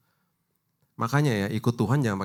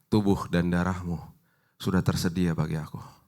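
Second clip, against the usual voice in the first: prayer; 4 semitones lower than usual. Retold or imitated. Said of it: "kita bilang gini".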